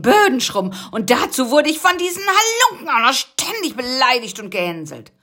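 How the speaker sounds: high, loud complaining; whiny bug voice. Acted. Rocky telling of his wasp captivity, high and whiny. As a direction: moan about the wasps.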